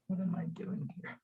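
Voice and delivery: very soft, half-whispered aside; muttering to self. Real, not acted. Host puzzles over what she is doing here, muttering to self. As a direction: think aloud under your breath. Talking to self while fixing settings.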